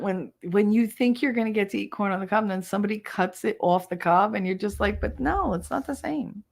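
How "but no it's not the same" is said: mock pouty whine. Mock pouting about cut corn.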